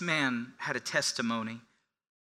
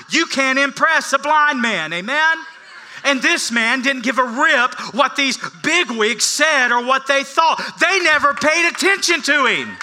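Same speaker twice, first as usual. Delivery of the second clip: louder and higher, testifying hard; fervent preaching; 9 semitones higher, 9 dB louder than usual. Acted. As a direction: preach it like a proud blind man. Preaching at full force.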